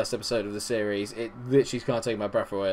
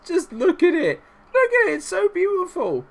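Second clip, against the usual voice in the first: very high-pitched, loud gushing; gushing delight; 6 dB louder than usual. Real, not acted. Game host admires his team's perfect record, gushing in a very high voice.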